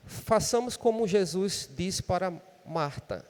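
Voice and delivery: ordinary talk, nothing marked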